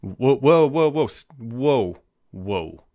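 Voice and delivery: loud astonished whoas fading to a hush; amazed whoa. Real, not acted. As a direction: gasp at a rare find, then let it fade. Seeing rare Surface device.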